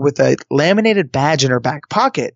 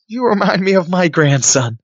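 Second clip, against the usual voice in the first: lightly voiced doting granny, higher pitch; a hint of a sweet old lady; 5 semitones higher than usual. Old lady warms to the young contestant, lightly voiced high granny. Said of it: "and she goes".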